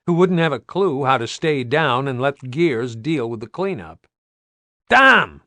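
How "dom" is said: high, loud call of a name. Acted. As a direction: shout across the streets to find him. Calling out across the town.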